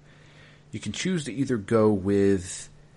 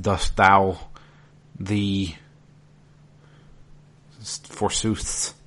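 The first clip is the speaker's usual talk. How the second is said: hammy stage actor; slower than usual. Retold or imitated. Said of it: "He speaks in Old English".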